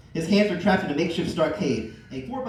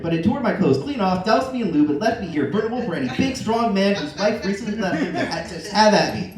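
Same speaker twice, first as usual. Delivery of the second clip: eager; 3 semitones higher, 5 dB louder than usual. Acted. Al's staged plea to Tim.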